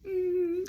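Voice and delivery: high, soft whimpering "mm"; fake sob. Shown as a demonstration. Storyteller acting out her crying, soft fake sob. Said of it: "fake sob".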